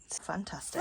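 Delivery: whispered dry aside; whispered sarcasm. Real, not acted. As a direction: murmur it wryly under breath.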